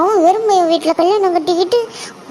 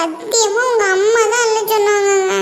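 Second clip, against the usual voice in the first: crying plea. Acted. Wife pleads with husband, crying.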